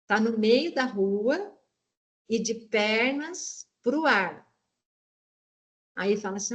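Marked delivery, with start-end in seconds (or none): 0.1-4.4 slow clue. Shown as a demonstration. Teacher showing a student how to give the clue, slowly. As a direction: read the riddle slowly, pausing between phrases. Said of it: "combinar que dica que ele poderia dar".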